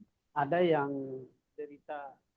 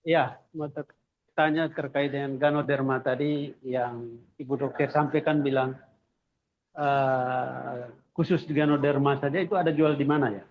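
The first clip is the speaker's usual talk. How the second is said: louder, raised-volume question; speaking up; 4 dB louder than usual. Real, not acted. Audience member repeating his question for the doctor, louder. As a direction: speak up so the doctor can hear. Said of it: "Tolong lebih keras".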